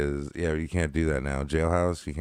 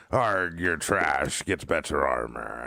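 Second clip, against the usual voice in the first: pirate voice; slower than usual. Retold or imitated. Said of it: "I had a pirate call me trash".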